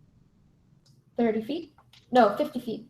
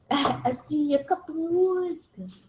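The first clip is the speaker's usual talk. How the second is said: put-on New York accent; 6 semitones higher, slower than usual. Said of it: "He was doing, like, New York".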